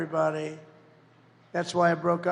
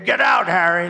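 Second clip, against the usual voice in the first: louder command, same pitch; loud order; 7 dB louder than usual. Acted. Candidate ordering Harry out the door, loud. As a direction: bark it at lazy Harry.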